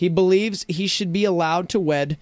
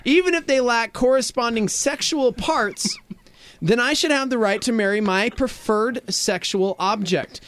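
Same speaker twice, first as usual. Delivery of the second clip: laughing; 4 semitones higher, slower than usual. Real, not acted. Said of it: "Stop laughing!".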